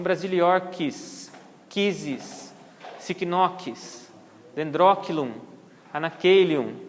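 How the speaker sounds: CH in "brasiliorquis" and "dendrochilum" said as hard K; CH como K. Shown as a demonstration. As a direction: read the orchid names with K for CH. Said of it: "tem som de K". (CH com som de K, pausadamente)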